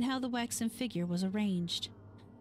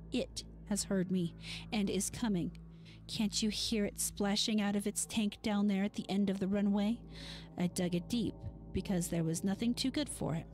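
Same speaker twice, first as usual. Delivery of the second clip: hoarse whisper. Acted. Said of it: "this time in a hoarse whisper".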